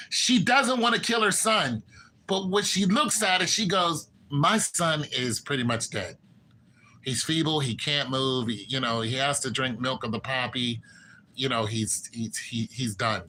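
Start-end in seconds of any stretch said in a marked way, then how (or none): 4.3-13.2 quieter and lower, a grieving mother breaking down; mock tearful lament. Queen imitated, resigning herself to her dying son, softer and lower with mock tears. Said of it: "And she cries".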